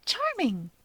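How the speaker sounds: high sarcastic quip; a sarcastic little compliment; dry sarcasm. A narrator's reading. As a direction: toss it off drily. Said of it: "Rika notes".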